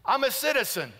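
high, insistent declarations in short separate phrases; declaring, not begging. Shown as a demonstration. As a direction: claim it as a citizen with rights, never pleading. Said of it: "He says, you don't beg".

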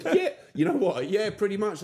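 high, loud talk through laughter; laughing agreement. Real, not acted. Host amused at the podcast described, laughing. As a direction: agree while cracking up.

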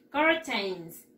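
"Curtains" said kor-teins. Shown as a demonstration. Teacher repeating "Curtains", first vowel like an O. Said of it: "Como una O".

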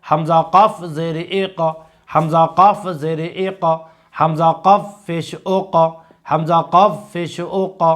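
even spelling chant, bouncing the closing ক in আ ক and জ in আজ; repeated model recitation, the last ক or জ rebounding as in ও ক, উজ; qalqalah drill. Shown as a demonstration. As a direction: spell in a steady rhythm, pushing an echo onto ক in ই ক and জ in ইজ. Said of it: "কলকলা অর্থ হচ্ছে ধাক্কা দিয়ে পড়া".

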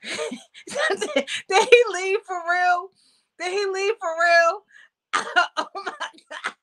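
high, giggling disbelief; words spilling out between laughs; laughing. Real, not acted. Streamer asking if he really left, laughing. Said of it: "I can't stop laughing".

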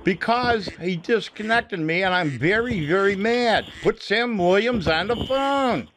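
mildly angry, insistent demand. Real, not acted. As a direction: get worked up and draw out the final demand. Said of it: "I'm getting angry".

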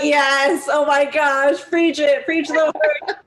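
playful amen-corner hype; mock cheering. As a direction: cheer like the congregation. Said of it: "We're like".

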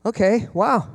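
understated, carefully unfazed reactions; mildly curious, giving nothing away; poker-faced parent. Acted. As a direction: take shocking news without reacting, leaving pauses. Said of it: "sit there with your poker face".

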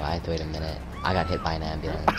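flat, deadpan monotone. Real, not acted. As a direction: say it flat and bored. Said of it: "You said the most monotone voice ever".

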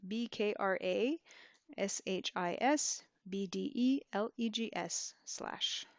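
"B K R A" named as separate English letters; English letter-by-letter spelling. Shown as a demonstration. Teacher spells it as to an English person, "B D E L E G S" letter by letter. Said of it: "to an English person, you can spell it".

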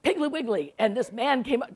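lightly imitated blustering friend; emphatic, a touch grandiose; a hint of an old bear holding forth; Pat Conroy. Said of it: "this is what he's telling me".

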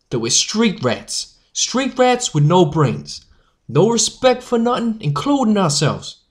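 loud, impassioned newsboy oratory; powerful rallying speech. Acted. Jack urges the newsies to unite, powerful speech. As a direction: drive each point home to the crowd. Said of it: "speaking so, well, powerfully".

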